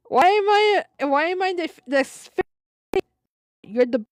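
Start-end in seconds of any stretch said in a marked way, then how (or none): 0.1-2.4 indignant disbelief. Acted. Reading out an indignant dialogue.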